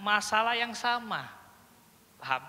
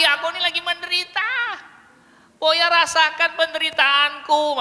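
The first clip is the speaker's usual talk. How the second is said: loud, high mock lament; hammed-up cry of misery; suffering child; 9 semitones higher, 10 dB louder than usual. Speaking the crying child's thoughts, mock-suffering. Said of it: "Maksudnya gitu".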